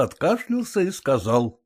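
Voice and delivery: ordinary delivery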